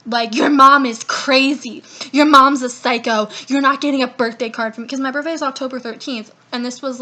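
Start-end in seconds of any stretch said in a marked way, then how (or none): 0.3-4.9 retold screaming. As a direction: shout it back like she did, a bit hammed. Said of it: "came through my line screaming at me".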